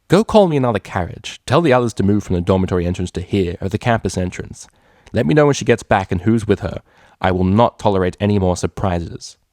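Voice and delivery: loud, cold commands; a boss who won't be crossed; commanding orders. Acted. Mare ordering her lackey around, loud and cold.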